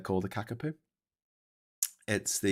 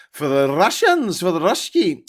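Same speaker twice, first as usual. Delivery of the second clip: loud, high burst on the name; mock shout; 8 semitones higher, 11 dB louder than usual. Finishing a line about drones for the Russians, mock shout. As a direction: call it out loudly with mock gusto. Mock cry after a pause.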